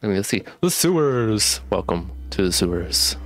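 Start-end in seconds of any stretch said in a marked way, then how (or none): 0.0-1.6 speech blurred by a retainer; talking with retainers in; wearing a retainer. Real, not acted. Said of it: "I do have my retainers in".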